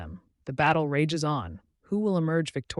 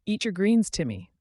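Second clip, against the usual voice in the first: lightly voiced goofy monster, starting high; half-hearted goofy growl of a command; 5 semitones higher, 4 dB louder than usual. A narrator's reading. Broccoli monster orders boy to eat, mildly goofy growl. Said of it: "a goofy broccoli monster growled".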